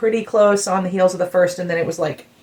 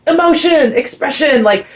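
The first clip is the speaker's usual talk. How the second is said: excited gush; 5 semitones higher, slower than usual. Real, not acted. Describing singer's emotional outpouring.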